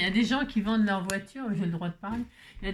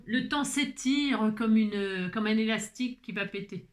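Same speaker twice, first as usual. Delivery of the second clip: slow dictation. Shown as a demonstration. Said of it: "repeats the line laughing".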